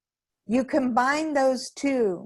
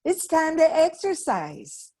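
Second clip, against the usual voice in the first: upbeat inner coach. Pretend. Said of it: "will wake you up and say".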